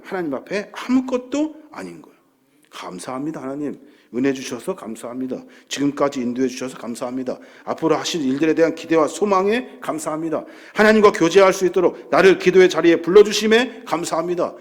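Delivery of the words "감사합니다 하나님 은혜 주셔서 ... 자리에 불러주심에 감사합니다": demonstrated thanksgiving prayer. Shown as a demonstration. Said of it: "이것이 기도의 전부라는 거예요".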